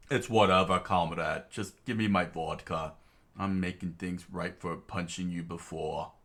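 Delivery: put-on light Russian accent, concerned. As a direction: check on a comrade in Russian accent. Tatiana, Russian voice.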